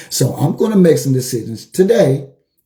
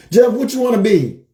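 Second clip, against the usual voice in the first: barber's question; 7 semitones higher than usual. Retold or imitated. Barber Joe asks again.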